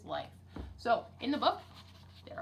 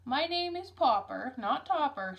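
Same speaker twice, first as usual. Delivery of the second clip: louder, slower indignant shout; exasperated louder shout, slowly; 3 semitones higher, 5 dB louder, slower than usual. Acted. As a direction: shout it down the phone at a deaf clerk. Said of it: "shouted Mister Popper".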